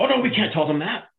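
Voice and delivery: high prissy refusal; mocking lawyers. Teller mocks lawyers refusing to warn staff, high whine.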